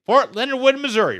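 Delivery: high, loud announcing; loud announcement. Acted. Host naming his basic training base, loud and high. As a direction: proclaim it proudly.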